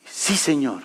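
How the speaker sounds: low, soft submission; subdued obedient reply. Retold or imitated. Son answers the voice of God, low and subdued. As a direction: answer humbly and very softly.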